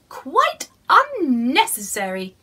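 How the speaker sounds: mild grumpy husband; dismissive husband. Acted. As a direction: brush the idea off. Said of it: "he said".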